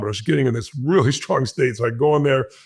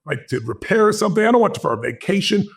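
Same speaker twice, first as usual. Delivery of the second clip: 1 eager pitch; 4 semitones higher than usual. Retold or imitated. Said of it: "with all the energy I had".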